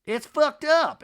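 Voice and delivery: high, loud indignant outburst; hammed-up angry exclamation; mock outrage. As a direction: yell it as an imitated rant. Imitating Brittany ranting behind door.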